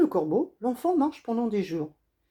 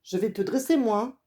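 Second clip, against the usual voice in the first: mildly angry hunter, a touch louder; furious growl; 3 semitones higher, 4 dB louder than usual. Acted. Hunter warns the bitten boy he will tame him, mild anger. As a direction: threaten him, understated anger. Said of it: "gronde le chasseur furieux".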